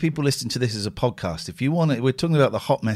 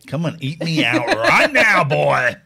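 slow, loud, laughing; hammed-up come-on; mock seductive quote; 4 dB louder, slower than usual. Joking about giving in to catcallers, slow and laughing. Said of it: "turn around and go".

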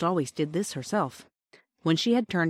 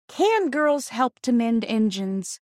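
doubtful question; 6 semitones higher, 3 dB louder, much slower than usual. Acted. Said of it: "Peter asked doubtfully".

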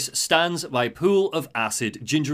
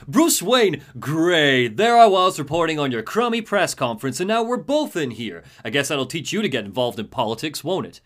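snarky reporter; 4 dB louder than usual. Retold or imitated. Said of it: "Jack Ryder is like".

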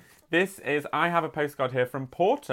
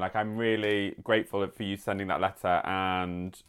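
tearful; 5 semitones lower than usual. Real, not acted. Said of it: "I have tears in my eyes now".

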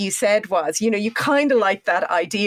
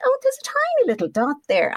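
surprised; 10 semitones higher than usual. Retold or imitated. Retelling own worried thoughts.

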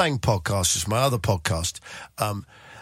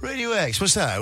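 mock sneer; 8 semitones higher than usual. Snob sneering at radio station.

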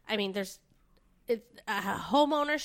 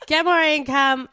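laughing; 5 semitones higher, 10 dB louder than usual. Real, not acted. Laughing through the outro summary.

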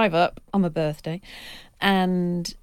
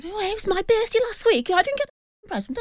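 high, whiny mock complaint; mock-jealous whine from the other writers; jealous colleagues; 13 semitones higher than usual. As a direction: whine it like a sulking child. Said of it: "And they were going".

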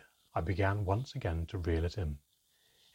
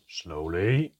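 deep, calming voice; 5 dB louder than usual. A narrator's reading. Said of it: "His voice was deep, calming and soothing".

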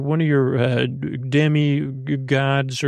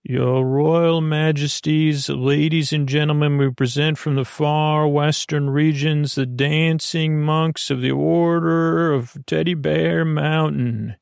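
herald announcement; 2 semitones higher than usual. Acted. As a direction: proclaim it to the court.

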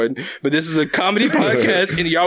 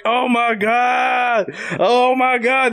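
excited; 5 semitones higher, much slower than usual. Retold or imitated. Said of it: "And I'm like".

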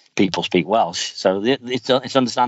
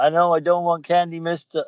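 high-pitched cartoon kid voice; Bart; 10 semitones higher than usual. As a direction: plead in a put-on high voice. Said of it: "Remember when Bart went to".

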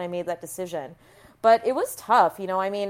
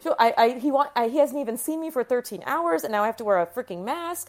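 higher-pitched exasperated protest, partly re-lived; retold angry rant; 4 semitones higher than usual. Mother venting at NICU staff over the mask, higher and exasperated. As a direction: rant as if the nurses are still making her mask up. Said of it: "I was so angry at everything".

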